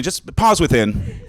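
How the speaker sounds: calm coaching. Shown as a demonstration. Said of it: "Take a minute".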